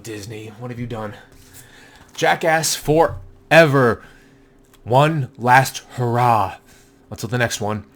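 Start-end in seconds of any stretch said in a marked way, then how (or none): 2.1-6.6 announcer hype. Acted. Hyped title announce.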